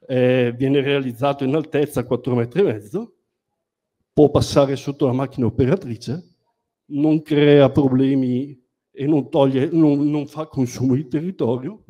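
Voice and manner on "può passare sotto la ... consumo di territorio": breathless, talking between gasps; out of breath. Real, not acted. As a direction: speak while short of breath from rushing. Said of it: "ma c'ho il fiatone". (col fiatone)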